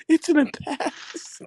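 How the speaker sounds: high, slow squeal breaking into laughter; pleading woman. Retold or imitated. Playing a woman dismissing her past, slow high mock voice. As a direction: stretch the words in a mock female voice. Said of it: "she'll be like".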